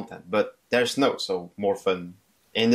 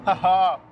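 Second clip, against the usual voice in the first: high, short burst of delight; pleased high-pitched cackle; delighted haha; 8 semitones higher, 4 dB louder than usual. Real, not acted. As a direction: crow a quick, high haha. Delight at friend's car.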